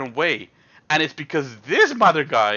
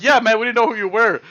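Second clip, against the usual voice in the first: mock pleading; 7 semitones higher, 6 dB louder than usual. Big guy repeats apology.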